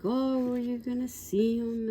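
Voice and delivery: imitated eager question, pitched high; eager fan question. Girls quiz the band member's supposed cousin, mimicked eager question. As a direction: mimic fans gushing, voice lifted high.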